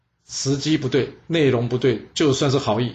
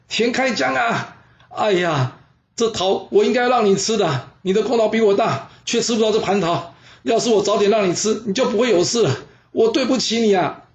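悲痛哀叹；高声调拖长的哭喊式哀悼；对着倒下的兄弟懊悔痛哭般地诉说；公孙捷对着自刎的田开疆，悲痛自责地哭诉; 8 semitones higher than usual. Acted. 公孙捷悲悼战友.

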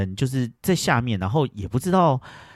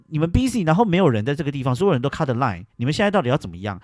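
retold complaint; 4 semitones higher than usual. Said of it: "我就说".

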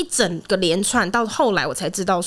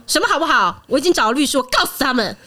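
angry reply; 4 semitones higher than usual. Retold or imitated. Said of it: "就我很生气这样".

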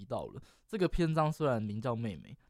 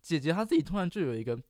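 voice cracking; 3 semitones higher, 3 dB louder than usual. Real, not acted. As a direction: voice cracks mid-sentence. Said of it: "哎呦，我刚是破音了吗？".

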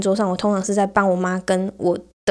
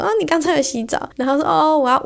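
mock excited girl; 7 semitones higher than usual.

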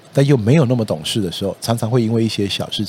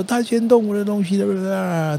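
high whiny wail, slow and drawn out; crying child; 11 semitones higher, slower than usual. Retold or imitated. Child sobbing to parent after a fight, high mock wail. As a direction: imitate a sobbing kid protesting. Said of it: "他就大哭说".

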